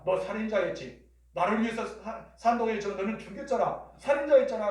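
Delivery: mock accusation. Acted accusation of Moses.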